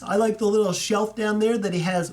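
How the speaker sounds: talking through a yawn; words stretched by a yawn. Real, not acted. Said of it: "Ooh, sorry, I'm yawning".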